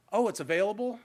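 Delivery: a mock-surprised question; lightly voiced surprised landlord; mock surprise. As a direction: feign surprise that it's open now. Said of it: "all of a sudden he does".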